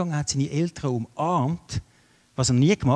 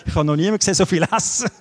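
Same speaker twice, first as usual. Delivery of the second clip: laughing while talking; 4 semitones higher, 5 dB louder, much faster than usual. Real, not acted. Laughing about guest's appetite.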